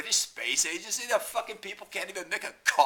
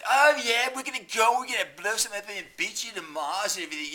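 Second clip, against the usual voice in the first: high mock-English boasting, loud at first; hammed-up English bragging; English impression; 5 semitones higher, 4 dB louder than usual. Mocking English team bragging about Mars, hammed-up English accent. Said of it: "this fucking English".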